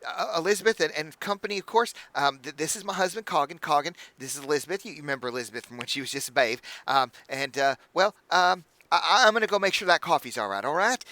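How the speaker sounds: high, gushing hostess voice; bubbly halfling innkeeper. Acted. Innkeeper welcoming the party, high and gushing. Innkeeper introducing her husband Coggin.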